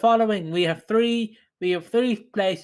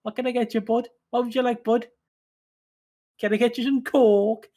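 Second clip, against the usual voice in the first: light impression of an overly chummy shop lad, pitched a bit higher; mimicking the lad's voice; 3 semitones higher than usual. Teller mimics the sexy lad pushing his trolley, lightly voiced chummy impression. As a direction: playfully imitate the eager guy offering food. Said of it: "his voice threw me off".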